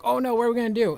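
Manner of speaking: high, loud hammed-up panic; cartoonish fake fear; mock panic. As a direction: squeal it like a cornered goon. Bad guys panic in his retelling.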